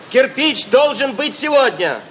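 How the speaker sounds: shouting into a crackly field phone; old crank field telephone. Acted. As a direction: yell down a bad phone line. Shouting down a bad phone line. (громко в трубку полевого телефона)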